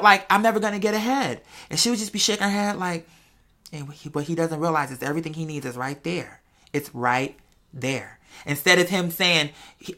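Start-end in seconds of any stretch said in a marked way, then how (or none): 3.7-8.2 quietly sure he'll see it; mother privately knowing her son will understand. Retold or imitated. Mother's knowing thoughts voiced.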